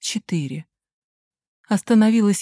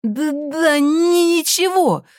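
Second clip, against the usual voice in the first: очень высоко, громко, заикаясь; выкрикни сквозь заикание; крик; 9 semitones higher, 3 dB louder, slower than usual. A narrator's reading. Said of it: "продолжал кричать он". (сын кричит на мать, очень высоко)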